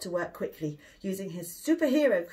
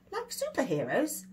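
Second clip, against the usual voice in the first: put-on boy's excitement; 6 semitones higher than usual. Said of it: "said William".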